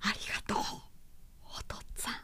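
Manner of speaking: low, hushed, barely voiced whisper. He kneels before the Buddhist altar and speaks, in a low whisper. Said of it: "彼は低い声でこう囁いた".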